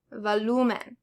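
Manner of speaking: volumen stressed on LU, voLUmen; stress on second-to-last syllable. Shown as a demonstration. Teacher giving learners an example, stressed voLUmen. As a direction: lean on the LU in volumen. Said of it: "The second to last syllable".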